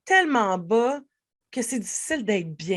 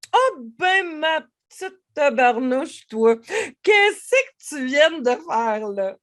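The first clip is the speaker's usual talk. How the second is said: fond teasing voice, pitched up; playful teasing; 4 semitones higher, slower than usual. Shown as a demonstration. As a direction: scold yourself with a comic tenderness. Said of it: "avec le ton, avec l'intonation".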